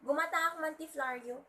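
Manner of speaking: "flower" said the local market way, as "flar-yu"; market mispronunciation. Retold or imitated. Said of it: "People usually say".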